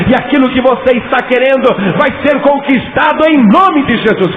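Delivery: loud high fiery sermon; preaching at full force. Acted. (pregação inflamada em voz alta)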